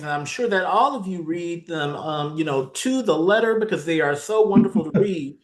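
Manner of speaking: lightly tongue-in-cheek, lilting into mock praise; facetious. Real, not acted. Committee chair ribbing members about reading dense agreements, facetiously. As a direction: tease the group with gentle, playful sarcasm. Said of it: "less facetiously".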